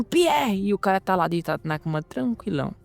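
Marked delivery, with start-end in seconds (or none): 0.0-0.7 bursting-in shout. Acted. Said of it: "abrindo a porta gritando".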